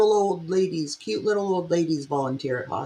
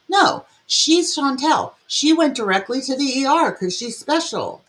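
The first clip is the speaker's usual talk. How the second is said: sarcastic; 6 semitones higher than usual. Acted. Sarcastic jab at the video.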